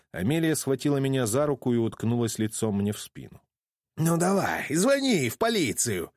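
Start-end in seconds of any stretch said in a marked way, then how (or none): 4.0-6.1 bravado. A narrator's reading. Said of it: "храбрился Кайл, хотя его голос дрожал".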